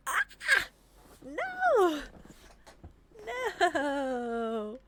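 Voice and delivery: loud, high wail of dismay; anguished scream. Real, not acted. Player failing right after succeeding, anguished scream. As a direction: wail as victory slips away.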